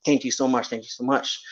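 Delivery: hushed gratitude. Retold or imitated. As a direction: murmur your thanks quietly, as if in prayer. Retold grateful prayer to God.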